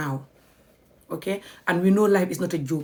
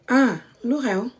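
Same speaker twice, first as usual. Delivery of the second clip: calm; 3 semitones higher, slower than usual. Shown as a demonstration. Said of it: "with a nice, calm body language".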